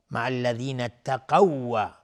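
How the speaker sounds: slow recitation, the closing waw of اتقوا doubled and held; merged double waw. Shown as a demonstration. Teacher drawing attention to the merge, waw of اتقوا held doubled. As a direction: lean firmly into a lengthened w ending اتقوا. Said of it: "اینجا دقت کنید".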